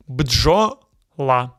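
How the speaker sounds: Бджола with B, D and J fused, no vowel between; teacher's Бджола, tight opening cluster and separate last syllable; consonants said together. Shown as a demonstration. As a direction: say Бджола as "bdzho", short gap, "la". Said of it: "You say them together".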